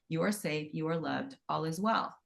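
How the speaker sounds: calm the listener with each phrase; soft soothing mantra. Shown as a demonstration. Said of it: "So just try that for yourself".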